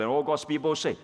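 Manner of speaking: rally the congregation to answer; call for response. Real, not acted.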